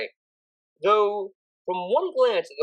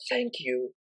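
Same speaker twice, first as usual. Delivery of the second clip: softer, breathy thank you; whispered thanks; 4 semitones lower, 5 dB quieter than usual. A narrator's reading. Octavia hugging her tutor, whispering thank you. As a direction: barely whisper your thanks. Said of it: "she whispered".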